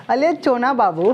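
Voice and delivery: slow, lisped baby talk, lightly put on; mock the cutesy lisp, slowly. Teacher mocking students' cutesy baby talk, slow lisp. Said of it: "तुतला हो गए हैं सब".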